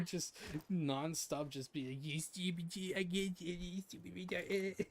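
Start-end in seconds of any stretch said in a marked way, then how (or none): 2.0-4.9 giggly mock insults, words falling apart; retold laughing fit. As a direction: babble it as if too amused to form words. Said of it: "And you just started laughing".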